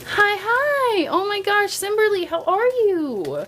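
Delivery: high, bright cabin crew greeting; flight attendant. Acted. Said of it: "it sounded like a flight attendant".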